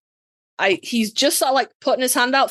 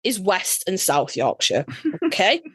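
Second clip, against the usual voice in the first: sassy; 3 semitones lower, slower than usual. Retold or imitated. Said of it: "sass the ever-loving fuck out of him".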